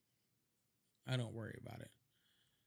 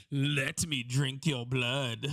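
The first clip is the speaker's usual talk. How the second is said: very slow, lightly voiced vampire; a slow, half-joking blood-drinker; mock vampire; much slower than usual. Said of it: "sounds like I'm fucking Dracula".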